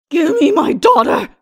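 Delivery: high, loud scream of demand; sudden scream. A narrator's reading. Lilith demanding her daughter, screamed. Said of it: "she suddenly screamed".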